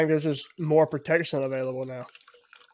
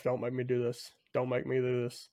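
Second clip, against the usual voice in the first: hushed retelling, voice kept down; imitated whisper; 6 dB quieter than usual. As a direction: quietly imitate someone whispering to himself. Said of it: "he's, like, whispering to himself".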